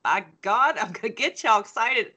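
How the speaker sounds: emphatic mock pep talk, pitch swooping up; playfully determined. Teacher vowing to get students excited about Marx, playfully determined. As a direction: punch it out with comic, swinging resolve. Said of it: "and I'm like".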